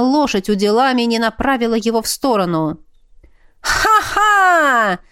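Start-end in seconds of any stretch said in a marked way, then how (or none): 3.6-5.0 high, gloating whoop of laughter; triumphant laugh. A narrator's reading. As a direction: crow in triumph. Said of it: "торжествующе завопила агент".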